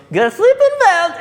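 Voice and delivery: loud high slow yell; angry shout. Acted. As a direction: bellow it slowly at them. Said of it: "She goes".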